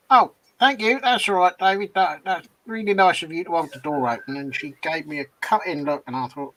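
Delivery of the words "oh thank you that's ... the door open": mock-grateful, syrupy thanks with a sting; sarcastic. To a coworker who walked through without thanks, sarcastic. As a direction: overdo the gratitude so it bites. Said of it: "I sarcastically said".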